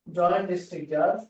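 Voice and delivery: word by word, long pauses between words; dictation. Shown as a demonstration. Teacher giving students the court's title to write, halting dictation.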